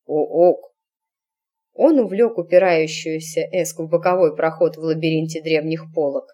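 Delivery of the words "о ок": orangutan ook. Acted. Orangutan voice repeated.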